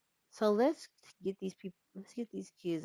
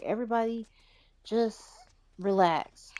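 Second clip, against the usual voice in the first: put-on calming the kids; 4 semitones higher, 7 dB louder than usual. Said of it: "She's like".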